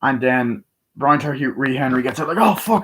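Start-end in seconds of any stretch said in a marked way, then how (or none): 2.4-2.8 mock alarm. Reacting to the action scene.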